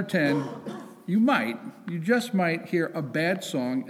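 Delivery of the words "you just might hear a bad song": bad leaned on, a little slower; stress on bad. Shown as a demonstration. Temple president joking about his own singing, stressing bad. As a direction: hit the word bad with a joking emphasis. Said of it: "emphasis on the word bad".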